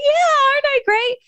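high, sing-song smug brag; mock boast. To friends who praised her, a high mock-smug brag. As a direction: play it up as if proud of yourself. Jokingly boasting about coping.

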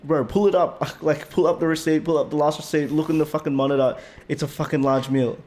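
replaying his frustration at the manager; retold angry outburst. Retold drive-thru argument.

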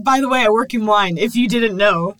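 playfully exaggerated casual boast; mock by-the-way announcement. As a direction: mimic the guest announcing it as if nobody knew. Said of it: "Sorry, you said that like".

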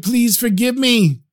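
high, slow tearful prayer; man on his knees pleading to God, crying; crying plea. Acted. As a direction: beg forgiveness through tears. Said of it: "started crying uncontrollably".

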